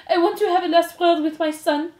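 high, loud theatrical demand; melodramatic mother. A narrator's reading. Antoinette asking a last word, melodramatic.

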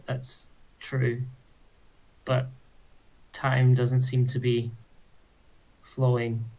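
careful answer with long pauses; tentative, broken-up confession; halting, hesitant. Acted. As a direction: feel for each word before saying it. Character hesitantly explains a strange problem.

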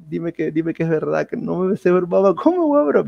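imitating a tearful mother's plea; mildly acted weepy disbelief; crying mother. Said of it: "Mi mamá llorando".

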